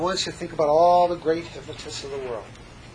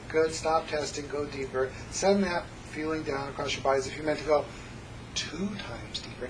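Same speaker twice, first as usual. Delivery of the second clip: hypnosis script. Acted.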